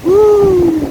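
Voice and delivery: loud high whoop; shouting over wind. Real, not acted.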